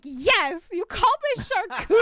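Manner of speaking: high, loud entitled customer demanding; mock Karen complaint. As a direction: play the outraged Karen at the buffet. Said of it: "such a Karen".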